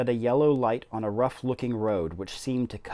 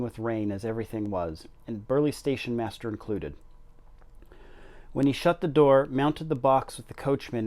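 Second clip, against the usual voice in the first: clear, steady read-aloud voice a bit louder than chat; story narration; 3 dB louder than usual. A narrator's reading. Reading The Secret Garden aloud to BookTube viewers, storybook narration. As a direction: tell the story to the listeners.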